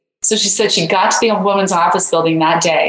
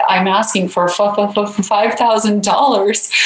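stuttering. Retold or imitated. A young woman stammers her ask to a rich donor, halting stutter. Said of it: "I stuttered and said".

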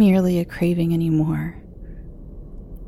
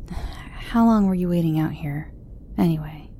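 gentle, quieter question; softened tone; 3 dB quieter than usual. Acted. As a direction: ease off, speak kindly. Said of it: "soften my tone slightly".

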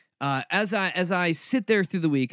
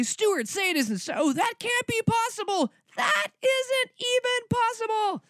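much higher mock pleading disbelief; imitating listeners. Host imitating stunned listeners in a high pleading voice. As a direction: whine it like a stunned fan, high up. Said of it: "And you all say".

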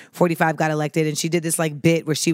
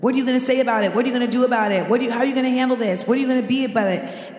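higher-pitched run of pestering questions; mock badgering; 4 semitones higher, faster than usual. Public pressing her about Charlemagne, mock pestering. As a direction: pile on demands without a gap, imitating naggers.

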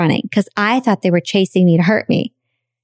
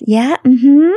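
forced polite agreement; 6 semitones higher, 4 dB louder than usual. Retold or imitated. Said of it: "But I smiled and smiled".

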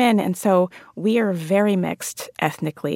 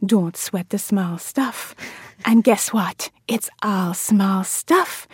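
slow hushed motherly whisper; mom's soothing slow whisper; imitating mom; 2 semitones higher, slower than usual. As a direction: whisper the wisdom like mom, slowly. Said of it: "and she's like".

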